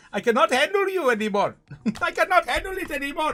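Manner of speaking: laughing loudly through the words. Real, not acted. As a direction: burst out laughing while saying it. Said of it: "laughing through the words".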